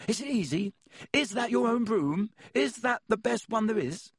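bursting to show his photo; eager young boy. A narrator's reading. Colin voiced again.

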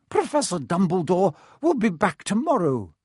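stern schoolmistress; firm professor. Acted. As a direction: close the subject. McGonagall answers firmly.

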